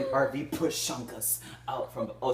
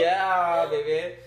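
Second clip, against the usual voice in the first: sweetly; 5 semitones higher, 6 dB louder, slower than usual. Pretend. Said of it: "replied sweetly".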